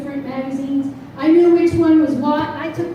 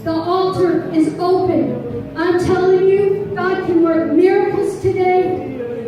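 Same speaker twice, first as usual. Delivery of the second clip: altar call; 2 semitones higher than usual. Acted. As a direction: invite them to the altar. Altar call over piano.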